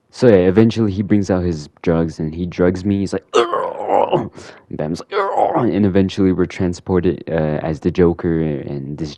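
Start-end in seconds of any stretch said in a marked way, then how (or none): 3.3-4.3 high rough mock groan; imitated groan. Villain drugs him, imitated high groan. 5.1-5.7 short high mock groan; imitated groan. Batman reacting to the drugs, imitated high groan.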